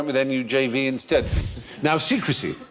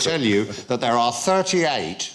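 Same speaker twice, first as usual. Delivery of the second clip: conspiracy theorist voice. Acted. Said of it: "Why are you talking like this?".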